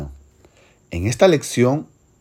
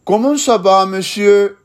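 higher, polite French "monsieur" voice; formal gentleman; 6 semitones higher, 4 dB louder than usual. Acted. One gentleman greeting another, politely in French. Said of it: "situación formal entre dos señores".

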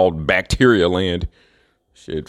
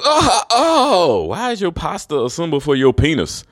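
much higher gasping "Oh, oh"; mock shocked Italian; 8 semitones higher, slower than usual. Mocking Italians clutching their crotches, much higher shocked voice. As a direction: shriek like a scandalized man. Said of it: "They start grabbing the crotches".

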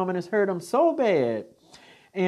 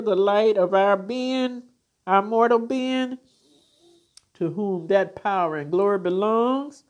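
benediction. Acted. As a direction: bless them like a preacher closing. Closing benediction prayer.

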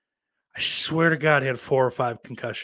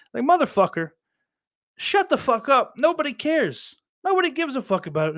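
high, loud furious outburst; angry rant; 13 semitones higher, 4 dB louder than usual. Real, not acted. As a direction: yell at the TV, fed up. Ranting at a TV pundit.

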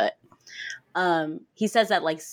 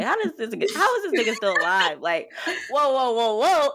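laughing, high and disbelieving; hammed-up whoa, whoa, whoa; mock shock; 4 semitones higher than usual. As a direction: play it stunned and giggly. Bree's shocked reaction, acted.

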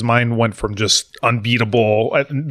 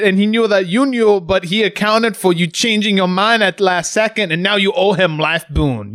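dramatic GM voice; 8 semitones higher than usual. Pretend. Game master dramatic ruling.

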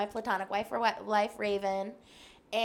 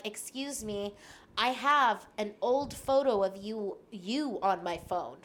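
mock creepy stranger; slower than usual. Imitating a creepy stranger with a photo, slow and hushed. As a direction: make it sound like a creep.

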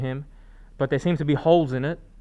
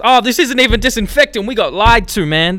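surprised; 8 semitones higher, 12 dB louder than usual. Real, not acted. Finds cleaner isn't disinfectant.

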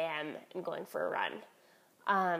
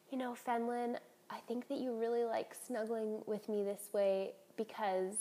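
soft, cozy confiding; tender mom; 2 semitones higher, 6 dB quieter than usual. Retold or imitated. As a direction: speak gently to your snuggling toddler. Mother voiced talking to toddler.

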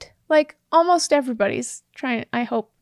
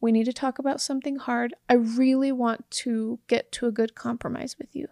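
gentle opener. Shown as a demonstration. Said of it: "start the conversation off with".

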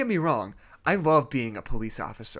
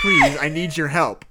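small feminine voice; 4 semitones higher, 6 dB louder than usual. Acted. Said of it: "a small feminine voice".

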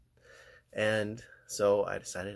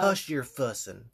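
put-on Southern accent; 3 semitones higher than usual. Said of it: "We were both doing our southern accents".

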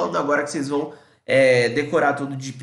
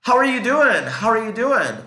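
lively greeting demo; 6 semitones higher, 5 dB louder than usual. Shown as a demonstration.

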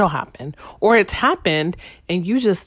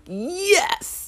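delighted yes; 13 semitones higher than usual. Retold or imitated. Delighted at new leather furniture.

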